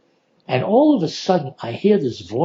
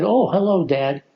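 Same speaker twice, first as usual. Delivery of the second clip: surprised greeting; 3 semitones higher than usual. Retold or imitated. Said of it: "it caught me so off guard".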